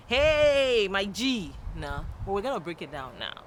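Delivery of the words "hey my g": high, loud "hey", dropping after; buddy hail. Shown as a demonstration. Demonstrating hail to a friend, enthusiastic buddy greeting. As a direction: call out to your pal, big and bold.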